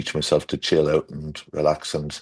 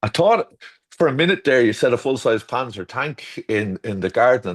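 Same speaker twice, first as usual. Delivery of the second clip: disbelief; 5 semitones higher than usual. Retold or imitated. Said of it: "and I went".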